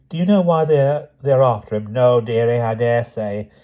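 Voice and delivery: lightly voiced calm old aunt; serene, cheerful old aunt. Aunt Fennel reassuring Lucy, cheerfully unbothered. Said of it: "she seemed quite serene, even cheerful".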